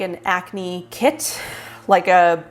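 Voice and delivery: breathless, winded speech; talking while short of breath. Real, not acted. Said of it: "I don't know why I sound so out of breath".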